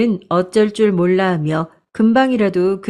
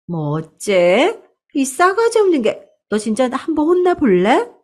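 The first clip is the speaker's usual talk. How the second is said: mock outrage at a cheeky niece; furious aunt; 6 semitones higher than usual. Aunt threatening her niece, acted angry outburst.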